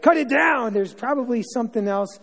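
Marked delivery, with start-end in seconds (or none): 0.0-0.7 higher, louder barked order; boss yelling. Retold or imitated. Foreman on a labor job yelling orders at workers, loud. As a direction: yell it like an angry foreman. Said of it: "the foreman's like".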